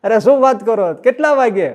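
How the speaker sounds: high, loud amazed asking; can't believe it, ask the time; astonished question. Retold or imitated. Astonished devotee asks.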